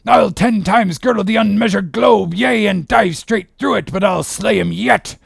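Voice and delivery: high, driving captain's shout; shouted orders. Acted. Captain urging crew after the whale, shouted orders. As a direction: bellow commands across the deck, pitched high.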